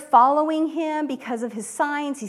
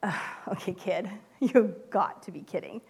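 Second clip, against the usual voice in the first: doubtful, unimpressed sigh; you can't be serious, kid; skeptical; 4 semitones lower, 5 dB quieter than usual. Shown as a demonstration. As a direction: Andrew doubting the boy's offer. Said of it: "I kinda hear Andrew's voice like".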